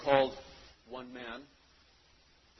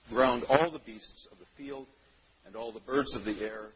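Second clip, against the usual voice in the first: scripture reading; 14 dB louder than usual. Acted. Reads scripture aloud to congregation.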